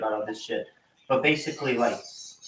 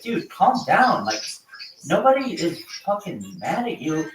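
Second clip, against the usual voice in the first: higher, slow, drawn-out plea to cool it; mock pleading calm-down; 5 semitones higher than usual. Friend begging the Australian to chill, pleading. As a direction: talk the hothead down, mock soothing. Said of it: "it's like".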